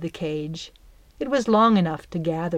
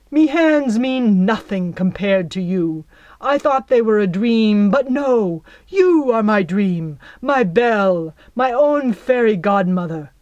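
louder, hammed-up lover's speech; melodramatic devotion; 7 dB louder than usual. Jack flatters Belle, theatrically overblown. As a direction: play it like an award-winning scene. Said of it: "sheer melodrama of his performance".

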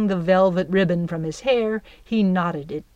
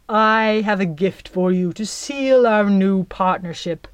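secretive whisper; 5 dB louder than usual. Acted. Jack lures Belle with a gift, whispering.

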